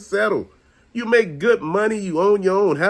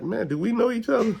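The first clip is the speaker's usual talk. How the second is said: a mildly higher, cool brush-off; deadpan snub; 4 semitones higher, 4 dB quieter than usual. Retold or imitated. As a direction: act like you've never met him. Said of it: "I said that shit just like that".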